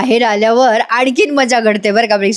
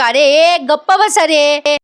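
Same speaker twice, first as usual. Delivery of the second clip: drawn-out, higher mock shout; mock yell; 4 semitones higher, slower than usual. Elder brother silencing the squabbling boys, mock yell. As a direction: call out slowly, imitating a scolding. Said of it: "यशादा जोरात ओरडतो".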